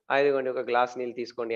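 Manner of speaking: acted calm, polite offer, quick and understated; mild, conciliatory offer. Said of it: "మళ్ళీ normal అయిపోతది".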